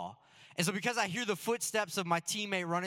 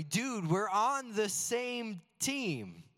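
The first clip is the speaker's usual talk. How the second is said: the same line said slowly in the usual voice; reflective repeat; 3 semitones higher, much slower than usual. Shown as a demonstration. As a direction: let it sink in, slow and sincere. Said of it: "But that stuck with me".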